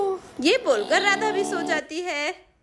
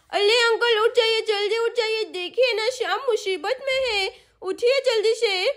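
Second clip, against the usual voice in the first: put-on pleading little girl; 3 semitones higher than usual. Sonam waking the uncle.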